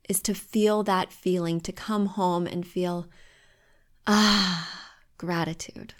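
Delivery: whispered, breathy with feeling. Real, not acted. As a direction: let it drop to a whisper, moved by the view. Moved by her home view.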